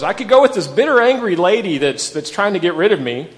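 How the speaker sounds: preacher voicing a torn young widow; voicing Ruth's choice. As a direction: think it through out loud as Ruth. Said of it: "She has two choices".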